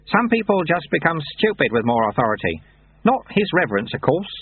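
lightly voiced wry old monk; dry, knowing old sweeper; old monk Lutze. A narrator's reading.

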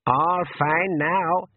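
put-on old pixie voice. A narrator's reading.

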